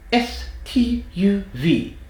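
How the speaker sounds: high, cliché British letters; stereotypical British accent. Shown as a demonstration. Accent coach demonstrates letters forward in the mouth, stereotypical British accent. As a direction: spit each letter out in exaggerated British. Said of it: "Forward again".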